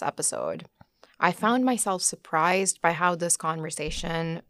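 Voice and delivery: measured, scripted host narration; podcast intro read. Acted. Host introducing her guest to listeners, measured narration.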